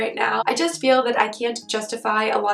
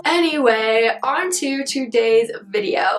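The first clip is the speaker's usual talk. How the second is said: hoarse, husky sick voice; talking through a sore throat. Real, not acted. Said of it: "in my sick voice today".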